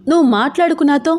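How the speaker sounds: high, irritated retort. Acted. Wife to her teasing husband, irritated. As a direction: push him away with words. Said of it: "చిరాకు పడింది".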